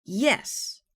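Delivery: loud high roar of "Yes". A narrator's reading. Jealous Captain roars at Matey, loud. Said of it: "roared Captain".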